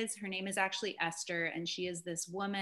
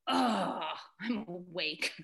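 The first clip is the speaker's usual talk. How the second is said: lightly acted waking groan; husband waking up; much slower than usual. Wife imitates husband telling how he woke, lightly acted groan. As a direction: imitate a sighing 'ugh' on waking.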